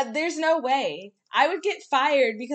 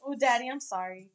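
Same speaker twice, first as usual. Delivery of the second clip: mock sultry; 2 semitones lower, 5 dB quieter than usual. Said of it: "weird sexual situation".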